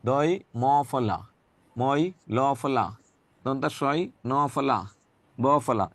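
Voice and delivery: each letter name drawn out very slowly; slow drill. Shown as a demonstration. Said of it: "ফলা বলা ফরজ".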